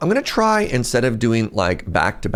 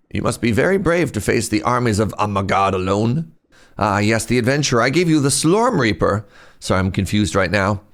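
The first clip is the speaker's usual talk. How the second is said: put-on old man voice. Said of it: "That's my old man voice".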